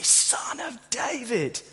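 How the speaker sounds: slow, breathy whisper of the title. Retold or imitated. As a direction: whisper it, slowly and pointedly. These blind guys call out.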